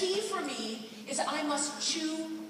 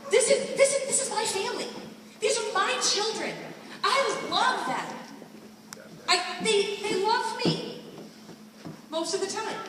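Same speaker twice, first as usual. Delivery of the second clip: laughing mock speech; 6 semitones higher than usual. David's voice in retold scene.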